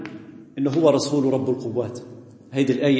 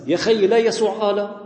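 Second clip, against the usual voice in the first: exasperated; 6 semitones higher than usual. Real, not acted.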